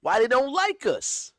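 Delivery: high, loud plea; pleading. Retold or imitated. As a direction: ask it with hurt disbelief. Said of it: "I'm saying".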